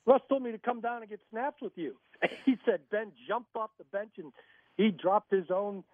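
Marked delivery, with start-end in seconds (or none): 0.1-1.9 high, louder, mock-indignant retelling; hammed-up teammate explaining himself; mock protest. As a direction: play up the guard's innocent excuse. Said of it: "And Alan said".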